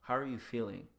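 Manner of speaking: measured, sincere check-in; present, attentive. Shown as a demonstration. Focusing on the other person, attentive everyday-voiced question. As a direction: ask it as if you want the answer. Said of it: "focus on your present and be like".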